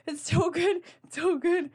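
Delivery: high, gushing rave about a book. Retold or imitated. Telling friends why she cried, in a high gushing voice. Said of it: "I'm like".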